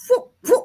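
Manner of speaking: short puffed "fwup" noises; two quick mouth pops; imitated silenced gunshots. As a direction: mimic movie silencer shots. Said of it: "But in movies, it's like".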